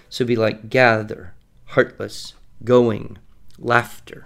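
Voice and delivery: gather, heartless, going, laughter stressed on the first syllable; strong then weak; trochaic words. Shown as a demonstration.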